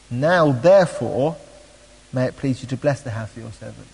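deliberate public reading of a prayer; scripture reading. Acted. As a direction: read scripture aloud, leaning on each new clause. Reads a Bible passage aloud.

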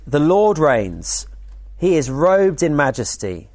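slow, measured reading of the psalm; scripture reading. Acted. Preacher reads Psalm ninety-three to the weekend group, slow and solemn. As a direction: read it out slowly and solemnly.

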